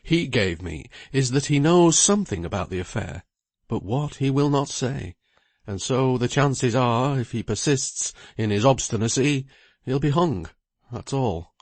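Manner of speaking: lightly voiced lawyer, a little worried; lawyer Bridgenorth.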